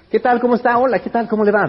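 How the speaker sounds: cheerful handshake greeting; friendly greeting. Shown as a demonstration. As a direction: greet like you're glad to see them. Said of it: "dar la mano y saludar".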